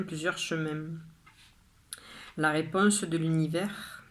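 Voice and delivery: measured poem reading, pausing after each line; poem recitation. Acted. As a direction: read your poem out line by line, with deliberate pauses. Reads own poem aloud.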